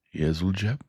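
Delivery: kindly, ponderous working man reasoning it out; Joe the blacksmith. Acted. Joe voiced in story.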